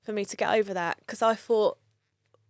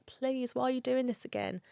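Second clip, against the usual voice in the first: higher-pitched pleading, without real tears; plead, retelling it rather than crying; retold tearful plea; 5 semitones higher than usual. Daughter on the phone to her dad, retold pleading. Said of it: "I remember crying".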